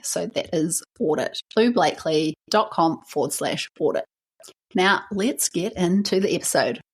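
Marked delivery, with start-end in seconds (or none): none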